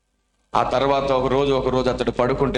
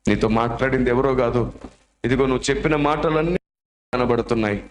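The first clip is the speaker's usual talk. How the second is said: tearful; 4 semitones lower than usual. Acted. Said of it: "బోర్మని ఏడుస్తూ".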